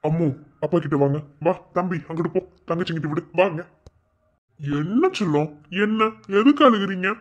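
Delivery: low, gentle parent voice; tender soothing. Acted. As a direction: comfort a crying little one. Father calls crying child over.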